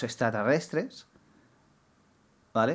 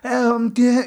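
feigned puzzlement; 8 semitones higher, 5 dB louder than usual. Retold or imitated.

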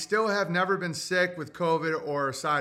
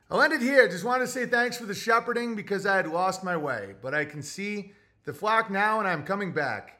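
put-on old-timey voice. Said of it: "Read an old-timey voice".

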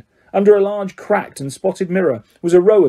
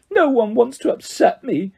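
high, wounded wail; howling; 7 semitones higher than usual. A narrator's reading. Myrtle echoing Hermione's assurance, howling. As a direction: throw it back as a tearful howl. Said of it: "howled Myrtle".

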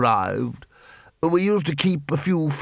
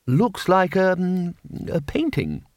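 lightly raised, bumbling wizard voice; flustered Ridcully; 5 semitones higher, slower than usual. A narrator's reading. The Arch-Chancellor to the patrician, a lightly voiced bumbling wizard. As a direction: stammer like a confused old wizard.

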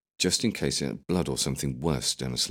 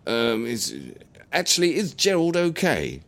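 high, anxious grandad question; worried old man; 9 semitones higher, 3 dB louder than usual. Acted. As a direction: ask it with sudden worry.

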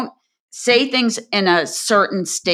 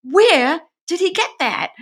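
high-pitched mock incredulity; baffled, voice jumping up high; retold disbelief; 11 semitones higher than usual. Scientist reacting to a colleague's false story about her, incredulous.

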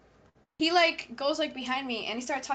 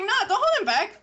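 retold taunt; 8 semitones higher, 6 dB louder than usual. Retold confrontation with classmate.

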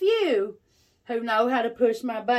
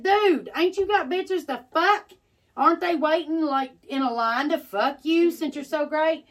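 sarcastic taunt; 4 semitones higher than usual. Retold or imitated. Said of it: "I said".

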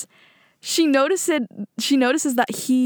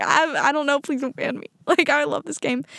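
mock pleading; 4 semitones higher than usual. Begging the admin not to ban her, mock pleading. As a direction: plead half-laughing, playing up the panic.

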